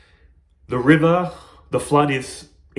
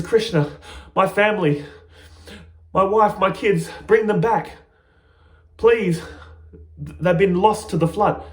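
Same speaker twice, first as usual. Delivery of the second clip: raised, pleading plea, a touch of tears; tearful pleading; 4 semitones higher than usual. Acted. Narada begging Krishna to return his family, tearful plea. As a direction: beg for the lost family back, voice lifted and near tears. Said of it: "starts crying".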